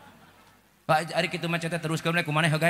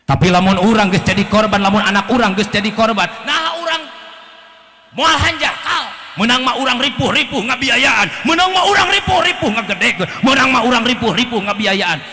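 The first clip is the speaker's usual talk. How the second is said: loud, rising preacher's cry; impassioned exhortation; 6 semitones higher, 8 dB louder than usual. Acted. Preacher warning the parents about their children, loud and fervent. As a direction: rouse the parents at full force.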